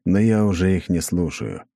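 plain reading voice

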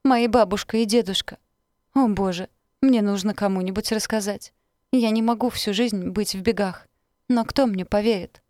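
frantic victim begging for help; terrified pleading hostage. Acted. Patricia fakes distress on phone. (отчаянная мольба, высоко и громко)

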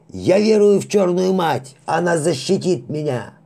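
high, loud, panicked creed; cling to faith, yelling; frantic shouting prayer. Acted. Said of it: "возопил матрос".

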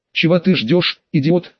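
слегка булькающий, противный голос божка; a lightly gurgling, nasty little god voice. Acted. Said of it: "противный, булькающий голос". (противный голос с лёгким бульканьем)

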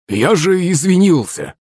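high, drawn-out whine; hurt, sulky protest. A narrator's reading. Servant insists he already apologised, offended. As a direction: drag it out high, sounding wronged. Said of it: "обиженно засыпел Захарыч".

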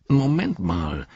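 slow, drawn-out interjection; calling out. A narrator's reading. Gimli cuts into the discussion, calling out. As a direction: call for a halt. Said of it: "rief Gimli".

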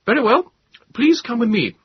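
put-on loud, high, brisk young officer. A narrator's reading. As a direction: give a brisk order through a mask. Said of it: "He said briskly".

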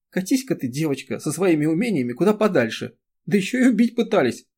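loud, high, weeping protest; tearful outburst. A narrator's reading. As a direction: pour out the hurt through tears. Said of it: "Она заплакала".

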